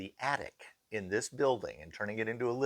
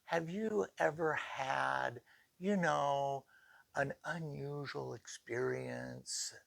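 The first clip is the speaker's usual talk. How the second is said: hushed guest question; 4 semitones higher, 7 dB quieter, slower than usual. Retold or imitated. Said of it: "talked to us and said".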